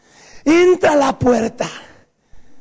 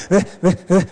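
mock sobbing; 6 semitones lower than usual. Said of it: "¿Cómo te quedas llorando?".

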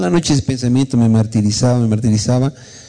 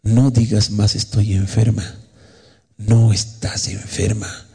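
slow, measured divine correction; lightly voiced God, calm and deliberate; a hint of solemn authority, words spaced out; the Lord; slower than usual. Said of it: "Y el Señor le dice".

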